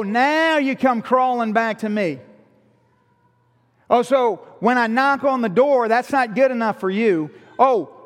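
sarcastic reproach. Acted. Husband taunting the wife who comes crawling back, sarcastic reproach. Acted retort of a wronged husband.

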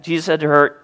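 usual speaking voice

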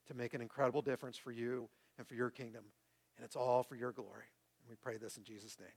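sincere, measured public prayer. Real, not acted. Pastor closing the sermon in prayer, sincere and measured. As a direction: lead the congregation gently in prayer.

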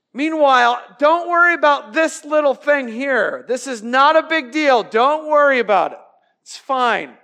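loud breezy brush-off; mock casual dismissal; dismissive hypocrite. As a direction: wave away your own plank.

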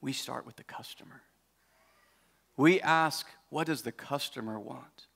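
lightly voiced earnest friend; low, grave and confiding; serious. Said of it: "he got real serious".

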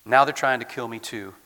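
loud, impassioned Elijah complaint; forceful lament. Acted. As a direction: pour out the grievance at full voice.

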